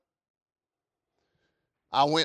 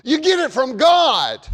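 rising preacher's call to the pews; preaching; 9 semitones higher, 6 dB louder than usual. Acted. Pastor asking his congregation, in full preaching voice.

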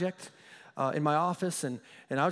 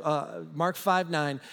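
ordinary delivery

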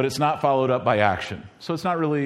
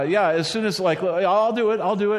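put-on stalling kid; 5 semitones higher than usual.

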